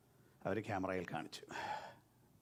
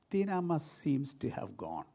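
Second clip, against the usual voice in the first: slow careful reading; much slower than usual. Retold or imitated. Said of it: "അങ്ങനെയാണ് എഴുതിയത്".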